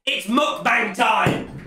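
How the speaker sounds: drawn-out host call; slow showman announcement. Acted. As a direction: announce it like a show opener. Streamer announcing show segment.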